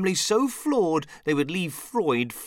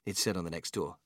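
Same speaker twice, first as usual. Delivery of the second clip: usual speaking voice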